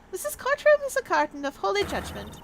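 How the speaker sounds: lightly voiced sanctimonious character; righteous courtroom scolder. Court figure orders the lecherous out, in a lightly put-on righteous voice. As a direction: pronounce judgment in a put-on voice.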